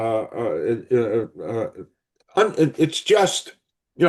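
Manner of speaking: halting, stammering speech. Introducing a guest who will talk about her movie, stuttering. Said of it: "I'm stuttering".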